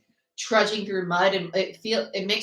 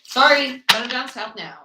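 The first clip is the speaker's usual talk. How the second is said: mock apology; 5 semitones higher, 6 dB louder than usual. Mock apology before Southern Belle claim.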